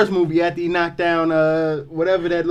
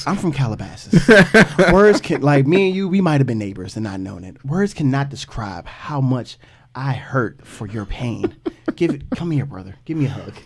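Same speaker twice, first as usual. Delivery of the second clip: white guy voice; 4 semitones lower than usual. Pretend. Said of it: "sounded like a total, like, white guy".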